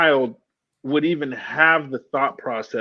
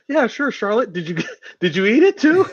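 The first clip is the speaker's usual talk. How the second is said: mock president; 8 semitones higher, 3 dB louder than usual. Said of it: "he's like".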